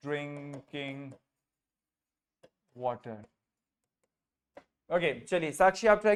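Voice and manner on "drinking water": very slow, each word spaced out; slow model phrase. Shown as a demonstration. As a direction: lay the phrase out word by word for learners. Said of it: "Very good".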